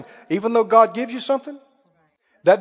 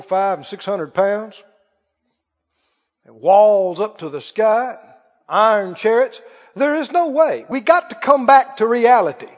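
mock doubter; 4 semitones lower than usual. Mocking voice of the doubters.

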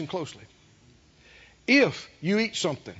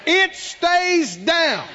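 much higher and louder, slow finish; fervent shouted confession; 8 semitones higher, 4 dB louder, much slower than usual. Shown as a demonstration. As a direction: proclaim it through the sickness. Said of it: "and you say".

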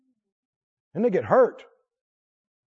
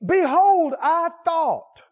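raised, indignant commander's voice; indignant Naaman; 9 semitones higher, 4 dB louder, much slower than usual. Acted. Preacher voicing proud Naaman, indignant and raised. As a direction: play the offended general loud.

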